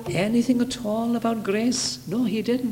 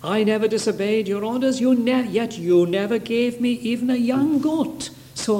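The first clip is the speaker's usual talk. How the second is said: mildly indignant, raised-pitch complaint; Pharisaic complaint; 4 semitones higher than usual. Retold or imitated. Elder brother complaining to his father, acted indignation. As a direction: imitate a self-righteous son protesting. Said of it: "This was the Pharisaic attitude again".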